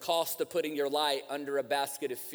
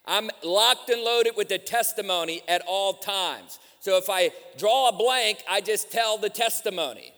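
raised, driving sermon delivery; preaching; 6 semitones higher, 7 dB louder than usual. Real, not acted. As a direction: preach it with rising force to the congregation.

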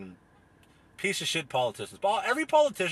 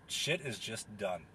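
slow quotable line; 4 semitones lower, 8 dB quieter, slower than usual. Shown as a demonstration. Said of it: "if I had one quote I could tell anyone".

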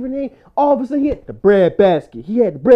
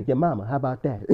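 quiet imitation of albino dude; 8 semitones lower, 7 dB quieter than usual. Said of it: "He said".

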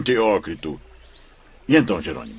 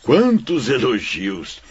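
amused laughter. Acted. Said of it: "e é bem-humorado também".

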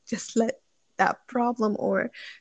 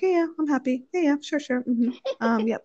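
higher, forced yes-yes agreement; mock cheerful agreeing, pitched up; fake happy; 4 semitones higher than usual. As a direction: pretend all is fine to dodge it.

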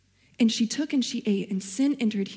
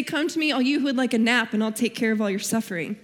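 mock wrong version; faster than usual. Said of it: "Jesus didn't say".

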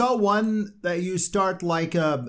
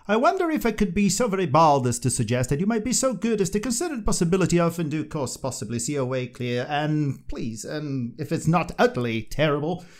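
British politeness; 3 dB quieter than usual. Retold or imitated. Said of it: "the British would go".

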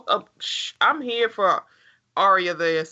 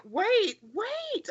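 mock alarm; 12 semitones higher, 5 dB quieter than usual. Real, not acted. Reacting to Sam's scene.

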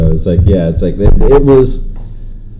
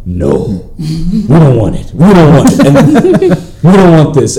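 laughing refusal; 5 semitones higher, 3 dB louder, slower than usual. Retold or imitated. Retold refusal with partner.

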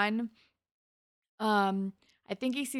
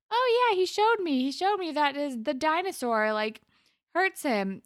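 put-on higher, childlike chatter; little girl voice; 6 semitones higher than usual. Little Angie telling the teens, childlike voice. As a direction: play a small child telling a secret. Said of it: "Angie's like".

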